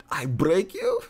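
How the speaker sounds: high, amused send-up of a villain; Drago impression. Streamer replaying the Drago line, high comic voice. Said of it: "About Drago".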